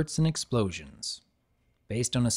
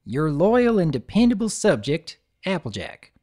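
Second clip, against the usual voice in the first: proud country pony signing her name; lightly voiced country pony; Applejack voice; 5 semitones higher, 4 dB louder than usual. Applejack signs off letter.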